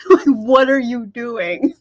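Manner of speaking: drawn out, laughing in disbelief; slow amused disbelief; slow laughing exasperation. Real, not acted. Reader laughing at the hero's foolishness, slowly.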